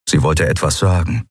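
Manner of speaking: plain reading voice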